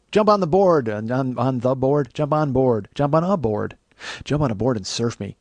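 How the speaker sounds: loud, high chant; rousing repeated call; hyped rallying cry. Acted. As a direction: pump up the crowd.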